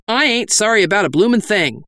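put-on old bandit refusing to repent; declared. A narrator's reading. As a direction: say it proudly, unrepentant. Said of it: "he declared".

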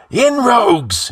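high, drawn-out yell to the gang; yelled command. A narrator's reading. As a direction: yell them into the fight, slowly stretched. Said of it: "yelled the outlaw".

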